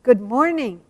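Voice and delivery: lightly voiced little boy calling a greeting; a hint of a small child's voice, slightly lifted; little boy's voice. Little boy in the parish greets Sister, lightly imitated child voice. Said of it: "this little voice go".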